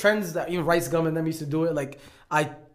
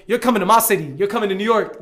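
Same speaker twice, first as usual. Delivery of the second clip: louder, heated street comeback; defiant retort; 3 semitones higher, 6 dB louder than usual. Retold or imitated. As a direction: call her out across the aisle, loud and proud. Retelling his retort on the plane.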